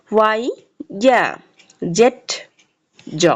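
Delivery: ওয়াই then ইয়া, জেড then জ, each isolated; letter names and sounds. Shown as a demonstration. Teacher models the last letters, careful isolated syllables. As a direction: recite name, pause, then sound. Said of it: "সঠিক উচ্চারণ এবং সাউন্ডগুলো জেনে নিই".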